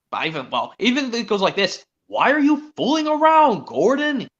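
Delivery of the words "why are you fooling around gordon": loud, high booming voice; mock booming Sir Topham Hatt. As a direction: boom it out like a stern boss. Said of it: "he boomed".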